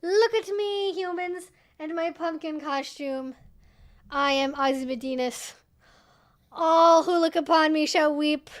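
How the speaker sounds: loud, grandiose proclamation; dog's imagined voice. Pretend. Owner voicing her costumed dog, mock-grand proclamation. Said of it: "She's like".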